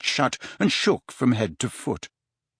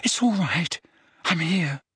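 gentle, anxious comfort; higher-pitched worried soothing; reassuring; 6 semitones higher than usual. A narrator's reading. Harry comforts the suffering Dumbledore.

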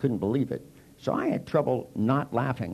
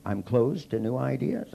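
slow, rising disbelief; incredulous echo; slower than usual. Retold or imitated. He echoes the group's charge back in disbelief. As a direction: throw the accusation back as a question. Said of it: "And I'd go".

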